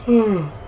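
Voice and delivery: real yawn with a high, falling sigh. Real, not acted. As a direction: let a yawn slide down from high. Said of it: "It's even making me yawn".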